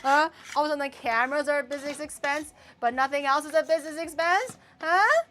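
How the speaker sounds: loud, high mock interrogation; hammed-up, high-pitched outrage; heated accusation. Mock interrogation over business expenses.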